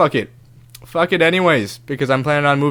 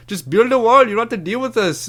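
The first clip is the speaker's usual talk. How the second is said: heckling taunt; 9 semitones higher than usual. Retold or imitated.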